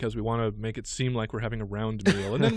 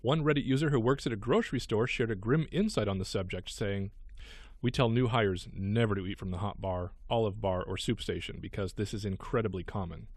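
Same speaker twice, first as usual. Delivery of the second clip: light, lively news-story read. Real, not acted. Radio host reading a gross news item to co-host, news read.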